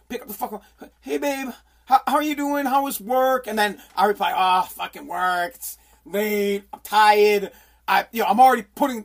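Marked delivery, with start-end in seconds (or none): 1.0-3.5 lightly voiced wife. Wife calling her husband about work, lightly voiced wife. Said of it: "I'm the wife here". 4.4-7.5 mildly weary, dragged-out groan; tired husband. Acted. Husband answering wife's call after work, mildly tired. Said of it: "the husband's already putting the hints out there".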